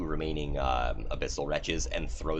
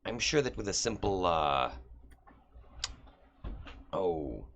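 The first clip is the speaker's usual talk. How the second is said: higher, wheedling devil offer; scheming devil; 6 semitones higher than usual. Acted. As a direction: coax the deal, a touch higher. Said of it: "and he's like".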